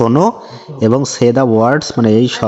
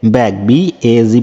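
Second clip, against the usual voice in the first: slow spelling drill; slower than usual. Shown as a demonstration. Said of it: "teacher বলবে ব্যাগ এবং student বলবে".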